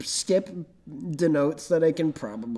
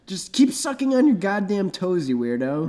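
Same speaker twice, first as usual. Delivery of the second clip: mock angry; 4 semitones higher than usual. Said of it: "And I'm like".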